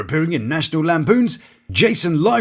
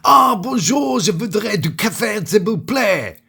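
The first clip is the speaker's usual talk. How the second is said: tourist's French; 4 semitones higher than usual. Retold or imitated. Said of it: "went into a delightful bread shop".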